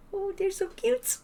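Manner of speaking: put-on very high, squealing little-girl gush; Agnes impression. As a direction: gush like a tiny girl over something adorable. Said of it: "Did I do a good Agnes impression?".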